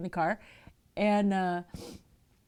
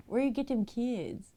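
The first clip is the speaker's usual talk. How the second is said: laughing, higher mock little-kid voice; imitating nephew's accent; 6 semitones higher than usual. Aunt retells nephew's question to his mother, laughing mock kid accent. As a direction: do the four-year-old's funny accent through a laugh. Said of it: "he said it in an accent".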